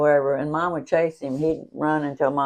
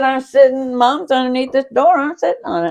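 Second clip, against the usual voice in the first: matter-of-fact; 9 semitones higher, 6 dB louder than usual. Retold or imitated. Sister answering calmly.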